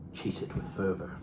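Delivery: unvoiced, very soft, intense whisper; breathy whispered urging of "fervor". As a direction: hiss the words like a secret passion.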